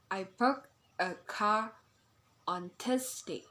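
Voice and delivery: "bought", "car" and "Thursday" stressed, split by pauses; sentence stress. Shown as a demonstration. Teacher repeating an example for learners, stressed words set apart. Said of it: "we know the sentence stress".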